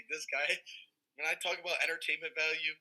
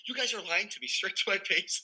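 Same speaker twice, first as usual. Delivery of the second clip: higher-pitched mock accusation; imitated indignation; 5 semitones higher than usual. Castmate accusing Maggie and Emily, imitated indignation. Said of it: "he was so mad about it".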